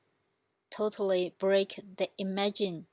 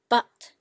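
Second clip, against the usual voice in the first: BUT dropped hard from high to low; loud "but" as a fourth tone; falling tone; 10 dB louder than usual. Shown as a demonstration. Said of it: "you are using the fourth tone".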